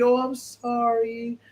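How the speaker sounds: drawn-out mock sympathy; mock condolence. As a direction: stretch it out like exaggerated condolences. Mocking overly solemn condolence reaction.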